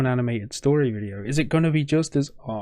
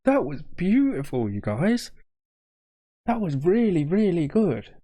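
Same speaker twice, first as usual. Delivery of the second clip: emotional; 4 semitones higher than usual. Real, not acted. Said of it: "this is getting me emotional".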